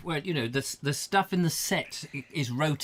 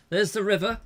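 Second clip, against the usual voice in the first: broad northern accent attempt; 6 semitones higher than usual. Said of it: "how does Roger Croser go?".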